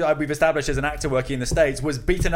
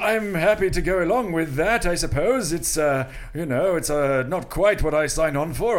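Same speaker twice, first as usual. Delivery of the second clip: mock olde english. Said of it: "Is that what Derek Jacobi sounds like?".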